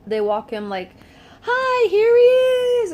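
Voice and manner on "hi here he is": loud, high sing-out imitation; mock cheery presenting. Staff walking baby past mother, mock cheery. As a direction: call it out in an exaggerated high voice.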